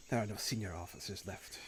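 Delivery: lightly voiced sister, low and quiet; understated bitter sister. Sister answers soldier about lost officers, low understated voice. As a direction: answer softly, with pauses between phrases.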